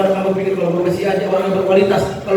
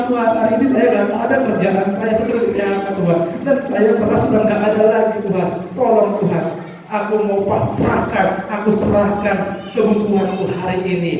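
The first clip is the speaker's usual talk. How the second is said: pleading prayer, a bit higher; desperate prayer; 4 semitones higher than usual. Acted. Jobless believer pleading to God, slightly higher. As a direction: lay it before God, pleading. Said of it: "Berani kamu".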